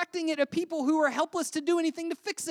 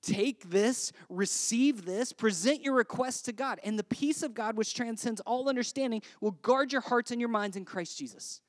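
prayerful; 4 semitones lower than usual. Shown as a demonstration. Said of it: "Every time you're tempted to complain".

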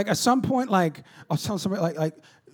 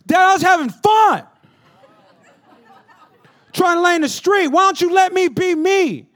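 put-on 1 whiny kid; 10 semitones higher, 8 dB louder than usual. Son complaining to dad.

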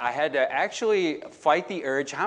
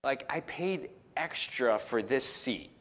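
a hint of an entitled young passenger; young guy; 5 dB quieter than usual. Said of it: "he's like".

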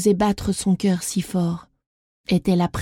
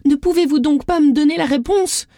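angry; 6 semitones higher than usual. A narrator's reading. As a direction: demand it, fed up. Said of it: "dit Isadora en colère".

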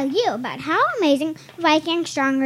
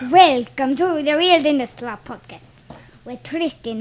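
cartoon Dracula voice; 5 dB louder than usual. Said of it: "who gave me the idea to do this voice".

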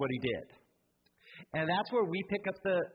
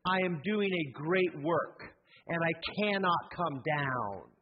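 steady declaration; slower than usual. Shown as a demonstration. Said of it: "you need to say".

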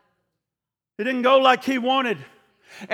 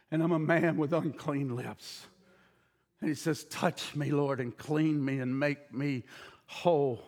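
much lower and much softer, intimate; hushed confession; 9 semitones lower, 9 dB quieter than usual. Acted. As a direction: drop to a near-private voice. Hushed close to the sermon.

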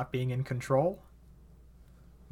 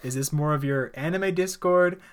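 louder, drawn-out bewildered questions; hammed-up bafflement breaking into laughter; mock confusion; 3 semitones higher, 7 dB louder, slower than usual. Friend recalling puzzlement at fake one hundred, exaggerated confusion. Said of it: "I was confused".

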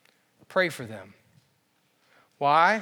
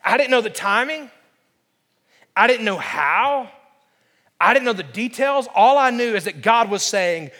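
raised, driving testimony; impassioned preaching; 7 semitones higher, 5 dB louder than usual. Real, not acted. Pastor tells congregation how God convicted him, impassioned preaching. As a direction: press the story forward with conviction.

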